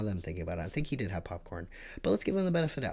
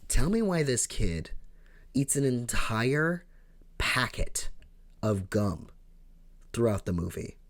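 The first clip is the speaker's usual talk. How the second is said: exasperated rant; 3 semitones higher than usual. Real, not acted. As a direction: build the outrage as you go. Ranting about gum-chewing kid.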